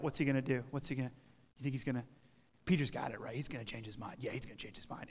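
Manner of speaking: low, very soft murmuring, fading to a whisper; acted furtive speculation among bystanders; hushed onlookers. Preacher as disciples peering round the corner, hushed murmur.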